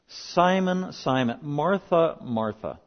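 measured reproving name, said twice and falling; understated reproof, the second name dropping; emphatic rebuke. Shown as a demonstration. Jesus rebuking by repeating the name, mildly emphatic. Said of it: "That is a rebuke".

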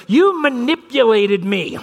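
put-on high, slow, deliberate kid accusation; little boy accusing his big brother, high and slow; six-year-old's accusation. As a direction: spell it out like an offended six-year-old. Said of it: "my six-year-old turns to his older brother and goes".

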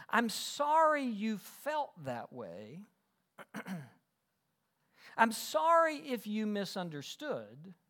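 slow, insincere mock apology; drawn-out fake sorry; non-apology apology. Shown as a demonstration. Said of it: "here's what the non-apology apology sounds like".

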